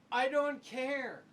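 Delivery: a hurting son brushing off the doctor; impatient son in pain. Retold or imitated. Injured son answers the doctor.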